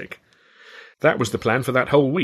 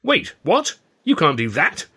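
plaintive; 7 semitones higher, 4 dB louder, slower than usual. A narrator's reading. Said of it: "he said plaintively".

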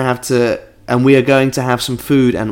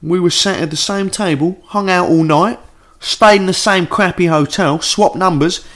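letter read in a light Cockney accent; 5 semitones higher than usual. Shown as a demonstration. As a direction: keep the Cockney going, higher. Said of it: "should this be in a Cockney accent".

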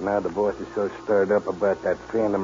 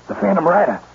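shocked cry; 11 semitones higher, 8 dB louder, faster than usual. Acted. Recognizing the masked outlaw.

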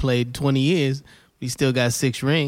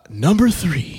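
radio voice; 6 semitones higher, slower than usual. Shown as a demonstration. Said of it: "And I put my radio voice on".

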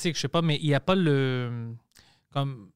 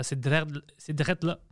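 put-on Quebec accent; 3 dB quieter, slower than usual. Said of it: "Puis elle me dit".

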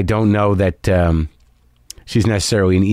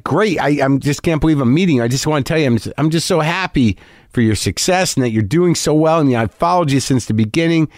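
earnest fan; 3 semitones higher than usual. Retold or imitated. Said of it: "Very earnest guy".

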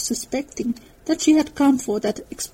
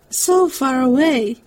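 despairing; slower than usual. A narrator's reading. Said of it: "in a tone of despair".

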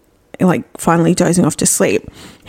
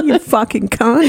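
laughing. Real, not acted. Laughing insult.

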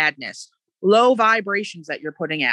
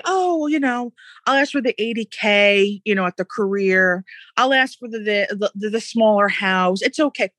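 a hint of a meek, settling voice, pitched up; mock timid asker; 2 semitones higher than usual. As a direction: imitate someone shrinking from asking big. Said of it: "Don't say".

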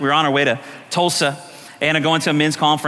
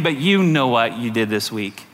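low, insinuating accusation; accusing enemy; 8 semitones lower than usual. Acted. Enemy to worshipper raising a hand, low accusing taunt. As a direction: sink into the devil's knowing taunt.

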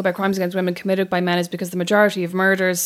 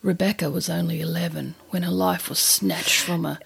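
lightly voiced melodramatic podcast host; a hint of a grave, sentimental crime narrator; mock true crime narrator; 2 semitones lower than usual. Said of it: "he kind of editorializes that he'll go like".

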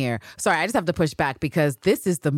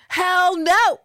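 much higher, louder; emphatic hell no; 6 dB louder than usual. Real, not acted. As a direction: reject it flatly and loudly. Emphatic refusal.

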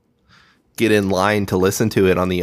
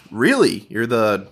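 mock surprise on phone; slower than usual. Staged fake call from celebrity manager.

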